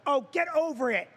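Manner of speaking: mocking Vicky. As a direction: wave it off like an impatient wife. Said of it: "Vicky's like".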